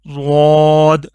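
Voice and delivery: ضاد said thick and slow; heavy letter. Shown as a demonstration. Teacher showing pupils the heavy sound of ضاد. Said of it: "یہ بھی موٹا کر کے".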